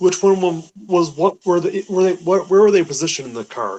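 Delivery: stammering, restarting repeatedly. Asking a follow-up question about the car, stuttering. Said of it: "Sorry for my stuttering there".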